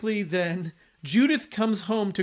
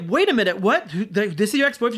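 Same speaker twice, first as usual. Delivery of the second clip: loud, raised, hurried disbelief; mock shock; 3 semitones higher, 5 dB louder, faster than usual. Husband learns who her ex-boyfriend is, retold shock. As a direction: imitate a man stunned by sudden news. Acted shock at plot reveal.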